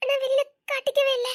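wife moved to tears; tearful outburst. Acted. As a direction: ask it overcome with emotion. Wife asks through tears, moved.

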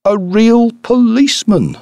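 very high, loud exclamation; acted helpless amazement, pitched right up; struggling with laughter. A narrator's reading. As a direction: cry out the punchline, overcome with mirth. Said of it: "during the rest of his speech".

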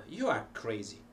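"crazy" falling at the end; statement intonation. Shown as a demonstration. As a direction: state it, letting "crazy" drop. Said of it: "hundreds of ways of pronouncing the same thing".

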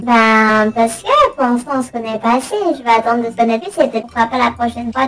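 voice changer. Pretend. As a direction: keep the voice changer on. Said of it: "voix modifiée".

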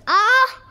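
high, rising mock yelp; short yelp, shooting upward; pretend startled cry. Child acting out a close call, pretend yelp.

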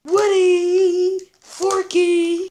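loud call across the room. Acted. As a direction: shout their names to fetch them. Calling out to friends.

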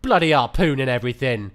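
put-on "Bloody" dropped low, British accent; mock British accent. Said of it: "speaking with a British accent".

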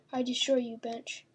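breathy menacing whisper; creepy whisper. Pretend. Gamer whispering a threat at the creature. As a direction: hiss the threat under your breath.

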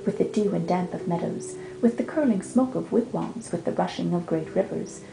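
rhythmic, chanting verse reading; poem recital. Acted. Reading Hiawatha's introduction aloud, rhythmic recital. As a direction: lean into the trochaic beat.

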